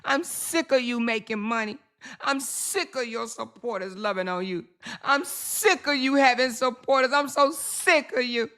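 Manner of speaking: a hint of a whiny rival voice; mild mock of the jealous rival; mocking her rival. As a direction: lightly mimic her bitter complaining. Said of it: "She's so si".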